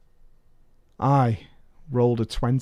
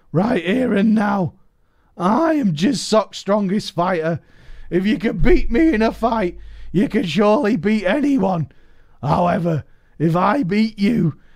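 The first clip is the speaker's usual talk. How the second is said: high, loud taunting challenger voice; challenging rival; 6 semitones higher, 5 dB louder than usual. Retold or imitated. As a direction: throw down the challenge, pitched up. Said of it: "Vishal suddenly piped up".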